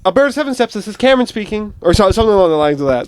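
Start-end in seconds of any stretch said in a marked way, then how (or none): 0.0-1.7 lightly put-on receptionist lilt, starting higher; a hint of switchboard routine; work phone greeting. Shown as a demonstration. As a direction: answer the office line by rote. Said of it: "at work with Seven Steps".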